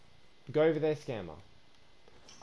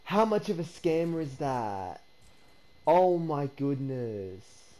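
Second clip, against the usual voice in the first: disgusted; slower than usual. Real, not acted. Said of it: "I'm so disgusted right now".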